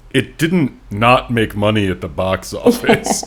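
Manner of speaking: a lightly defensive read of the wiki. Retold or imitated. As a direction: sound a touch defensive, mock quoting. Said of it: "just says kind of defensively".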